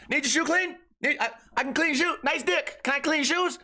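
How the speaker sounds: high, eager sales pitch at the urinal; pushy mall vendor. Retold or imitated. Vendor hounding a man at the stall, high pushy pitch. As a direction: pester him like a vendor hustling for shoe shines. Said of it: "trying to say".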